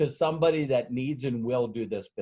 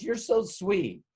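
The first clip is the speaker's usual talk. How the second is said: higher, slow, charmed; secretary touched by the chocolates, slow and higher; sweet secretary; 7 semitones higher, slower than usual. Retold or imitated. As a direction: coo it slowly, pitched up.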